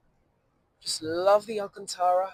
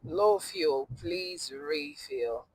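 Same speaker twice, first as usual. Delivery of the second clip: car warning voice; much slower than usual. Retold or imitated. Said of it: "I start saying that".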